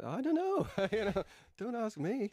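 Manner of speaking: bashful laugh through the words. Retold or imitated. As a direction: laugh it off shyly. Retold bashful reply with laugh.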